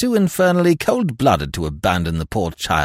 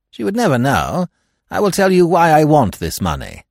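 higher, louder urging; insistent; 9 semitones higher, 6 dB louder than usual. Acted. Husband pleading for a secret loan, insistent. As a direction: press your case firmly. Keble urgently pressing his request.

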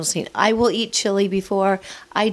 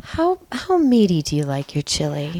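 sexy voice; 4 semitones lower than usual. Pretend. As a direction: purr the question sultrily. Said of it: "you have to ask me that in a sexy voice".

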